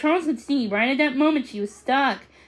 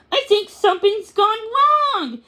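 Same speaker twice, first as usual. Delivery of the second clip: high, louder worried cry; alarmed; 8 semitones higher, 5 dB louder than usual. Acted. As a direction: sound the alarm like a worried boy. Charles alarmed.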